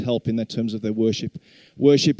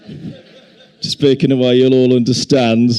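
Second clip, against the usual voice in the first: slow, clearly spelled-out words; slow careful speech; 8 dB louder, slower than usual. Shown as a demonstration. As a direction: speak slowly so all understand. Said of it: "I'm gonna try my best".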